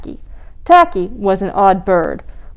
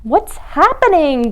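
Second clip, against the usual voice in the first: higher-pitched blare; blaring; 6 semitones higher than usual. A narrator's reading. Tacky greets the penguin hunters, blaring. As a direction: blare out the question. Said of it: "blared Tacky".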